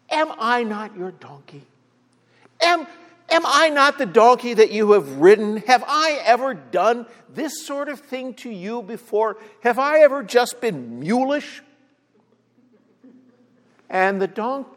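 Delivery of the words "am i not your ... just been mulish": higher mock donkey voice, hurt and indignant; a lightly voiced donkey asking why, pitched up; talking donkey. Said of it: "And the donkey says".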